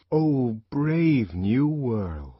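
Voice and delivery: slow, ringing proclamation; trumpeting call. Acted. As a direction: sound a call to arms. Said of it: "they trumpeted a call to arms".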